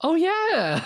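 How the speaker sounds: 1 laughing. Real, not acted. Laughing at Kitten's return.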